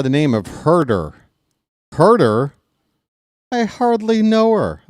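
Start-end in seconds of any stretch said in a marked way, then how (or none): 1.9-2.5 mock surprise. Joke setup, mock surprise. 3.5-4.8 punchy joke delivery. Acted.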